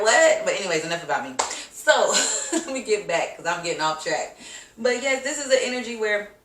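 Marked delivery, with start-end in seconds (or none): 0.0-0.4 a mildly high startled "what"; mock surprise. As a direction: play it lightly shocked at yourself. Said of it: "looking in the mirror like".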